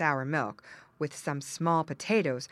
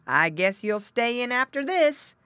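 raised-voice farmer, job done; crying out; 6 semitones higher, 6 dB louder than usual. A narrator's reading. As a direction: tell the runaway off loudly. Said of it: "cried the farmer".

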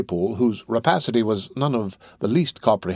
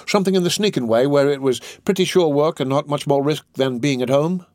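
higher, louder petty rogue; Noah Claypole; 5 semitones higher, 3 dB louder than usual. Acted. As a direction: angle keenly for easy work, pitched up. Voices Noah in dialogue.

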